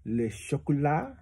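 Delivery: le chocolat spoken slowly in French, shoh-ko-LAH; slow French model. Shown as a demonstration. Parent teaching child, slow French le chocolat. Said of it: "Everyone say it like me".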